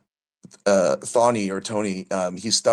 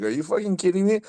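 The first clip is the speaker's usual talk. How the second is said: very high, hammed-up amazed question; mock disbelief; 11 semitones higher than usual. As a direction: shoot the pitch up in fake shock. Retelling his own disbelief.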